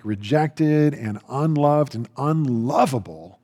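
normal talking voice

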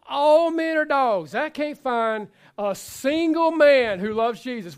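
loud, high, drawn-out grievance; mock exasperated complaint. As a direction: ham up a fed-up single woman's lament. Acting a fed-up single woman.

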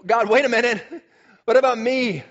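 dawning realization. Retold or imitated. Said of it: "it should have been obvious to Adam".

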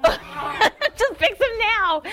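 high, pleading mock prayer; hammed-up desperate plea; whiny prayer. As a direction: whine it up at God like a frustrated wife. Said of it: "it sounded something like this".

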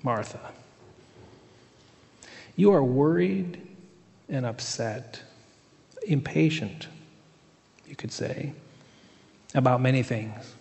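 lightly voiced, patient and kind teacher; warm, gentle Jesus. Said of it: "the warmth and the gentleness in his voice".

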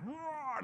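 held-back, high mock roar; high playful growling yell, kept quiet; imitated play roar. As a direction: imitate a wrestling roar without full volume. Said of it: "you screamed right in there".

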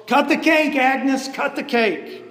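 "Cut the cake" called out high and bright; cheering yell. Retold or imitated. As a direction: chant "Cut the cake, Agnes" like a cheering crowd. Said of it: "Everyone cheers and yells".

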